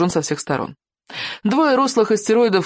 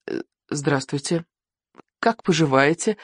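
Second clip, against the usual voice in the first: polite, tentative greeting. A narrator's reading. Captured boy greeting an angry chieftain, polite and tentative. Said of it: "вежливо сказал Икинг".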